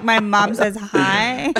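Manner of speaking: mock sweet text. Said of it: "you're like".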